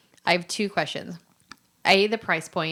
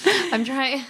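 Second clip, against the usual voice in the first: talking through spicy burn; mouth on fire; 4 semitones higher than usual. Real, not acted. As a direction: mouth burning from hot food. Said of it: "My mouth is on fire".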